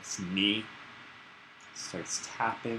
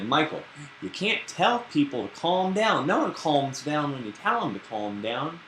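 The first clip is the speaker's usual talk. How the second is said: put-on girlfriend's voice, higher and louder, lightly scolding; 6 semitones higher, 5 dB louder than usual. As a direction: play Melba correcting Michael, pitched up. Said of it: "she's like".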